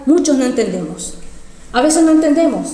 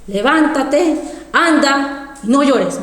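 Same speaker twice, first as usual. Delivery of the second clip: orden pausada, palabra por palabra; voz del Señor citada; much slower than usual. Retold or imitated. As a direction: manda con calma y firmeza, alargando. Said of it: "Y me decía". (mandato solemne y lento)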